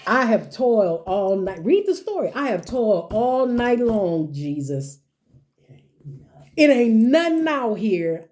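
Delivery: hammed-up Peter, high and indignant; complaining Peter. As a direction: insist you know your trade. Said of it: "Peter says".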